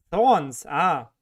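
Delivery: a loud, falling Thorns! as the penny drops; sudden realization. Real, not acted. Streamer getting a viewer's username pun, surprised. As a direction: exclaim Thorns! as you finally get the joke. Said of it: "Now I get the name".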